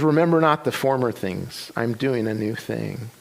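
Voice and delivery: slowing, lowering and softening as it ends; scripture reading. Retold or imitated. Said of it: "she reads Isaiah forty-three".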